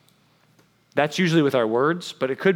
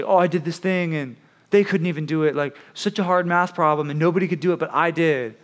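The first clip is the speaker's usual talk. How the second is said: mock boast, raised pitch; bragging; 4 semitones higher than usual. Student boasting about a hard math problem, mock bragging. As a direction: show off about what you pulled off. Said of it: "you brag about something, you say".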